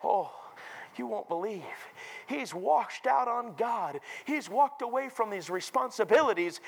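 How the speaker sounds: slightly high, pained voice; acted sorrow at bad news; grieving pastor. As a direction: report it with a heavy heart. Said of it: "a crackling in his voice".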